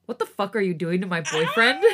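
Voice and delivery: reading through laughter; words breaking into a laugh; laughing while reading. Real, not acted.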